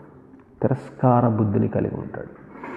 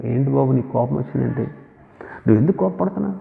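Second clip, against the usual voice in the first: gentle voicing of God; 3 dB quieter than usual. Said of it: "ఎంత చక్కగా మాట్లాడుతున్నాడు".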